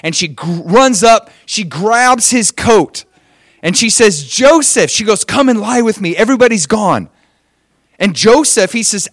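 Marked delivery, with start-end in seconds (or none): 4.2-4.9 higher, louder coaxing call; acted temptress. Potiphar's wife calling Joseph when alone, coaxing. 5.2-7.1 higher-pitched, urgent coaxing; acted temptress. Potiphar's wife urging Joseph to join her, coaxing.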